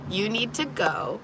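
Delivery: forced calm. Retold or imitated. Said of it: "trying to stay calm".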